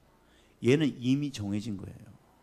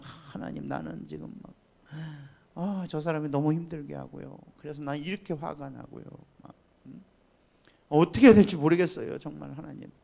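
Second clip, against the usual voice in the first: whiny complaining prayer. Retold or imitated. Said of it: "막 자기 하소연하는 거".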